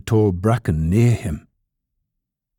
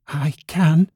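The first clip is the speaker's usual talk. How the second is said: higher little rabbit voice; insistent little rabbit; 7 semitones higher than usual. A narrator's reading. Toy rabbit answering a challenge, insistent high voice.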